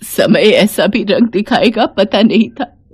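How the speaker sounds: a touch of crying, choked up; tearful lament. Acted. Humiliated mother-in-law weeping to herself, tearful. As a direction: sorrow breaking through the words. Savitri weeping after insult.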